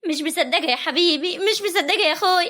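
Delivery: weepy, overwhelmed with joy; a touch of crying in the voice; tearful disbelief. Acted. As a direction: choke up in happy disbelief. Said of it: "ممكن اعرف دلوقتي انت بتبكي ليه".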